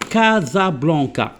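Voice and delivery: "كازابلانكا" read slowly with k sounds; hard C demonstration. Shown as a demonstration. Teacher reading the example word to pupils, slow hard k. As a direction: stretch out "كازابلانكا", each C as k. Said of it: "جو لي برونونسي كوم كا".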